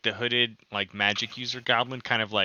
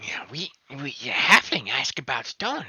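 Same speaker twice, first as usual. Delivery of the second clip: whispered; 5 semitones higher than usual. Acted. Unvoiced goblin aside.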